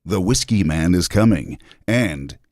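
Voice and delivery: slow, ominous trailer narration; lightly voiced brooding trailer read; horror trailer voice. Shown as a demonstration. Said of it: "Go with your big voice".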